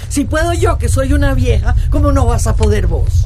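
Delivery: loud urging. Acted. Tina urging tired Eugenia onward, loud and spirited. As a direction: spur her on, half teasing.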